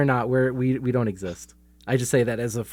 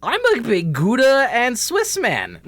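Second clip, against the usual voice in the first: laughing; 10 semitones higher, 4 dB louder, slower than usual. Real, not acted. Laughing while answering.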